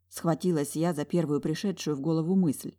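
ordinary delivery

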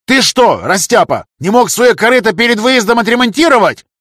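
very high, loud scolding; furious yell. A narrator's reading. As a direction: scream it at the clumsy trader. Councillor yelling at cart owner.

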